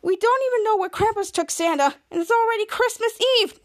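high-pitched, imitated worry; mock alarm. Retells a worried character's outburst.

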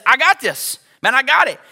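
mildly cocky, self-assured assertion; prideful boasting. Acted. Preacher voicing Pride to the congregation, cocky. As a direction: play Pride, sure of itself. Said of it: "Peace doesn't talk like that".

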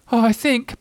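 high, small hesitant voice; nervous Piglet. A narrator's reading. Trying to cheer Eeyore, a high nervous Piglet. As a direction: start timidly, a little pig. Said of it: "began Piglet nervously".

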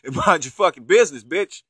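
hammed-up telling-off; retold angry threat. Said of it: "He told the woman".

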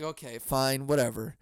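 resigned giving-in; retold grudging agreement. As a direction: give in reluctantly.

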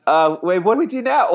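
retold giddy question, rising high into laughter; nervous laughter. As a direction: act out happy, flustered laughing. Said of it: "nervous laughter".

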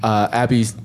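low, slow seductive voice; a put-on deep sultry voice; deep bedroom voice. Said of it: "why is your voice so deep".

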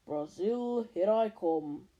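low hiss of a snake; lightly hissed snake voice. Acted. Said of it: "a low, hissing voice said".

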